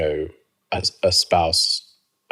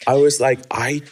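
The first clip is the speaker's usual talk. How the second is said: pained ooh; 6 semitones higher, 5 dB louder than usual. Retold or imitated. Dreading the next step, high.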